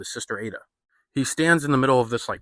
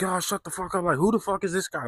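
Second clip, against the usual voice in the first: higher, dismissive mock voice of the regulars; mocking pub crowd; 8 semitones higher than usual. Pub regulars brushing off Tommy, higher dismissive scoff. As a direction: scoff at the stranger like a smug drinker. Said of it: "And everybody's like".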